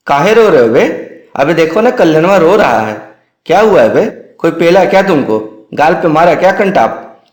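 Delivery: put-on rough boys teasing a crying junior; rowdy hostel boys. Hostel boys find him crying.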